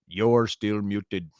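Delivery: drawn-out, deliberate "You're still muted"; each word stretched and separated; slow, emphatic repeat. Real, not acted. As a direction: spell it out very slowly for someone not hearing. Repeats slowly to muted co-host.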